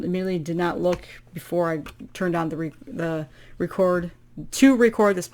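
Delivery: tripping over words; words not coming out right; struggling to talk. Real, not acted. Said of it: "talking is hard today".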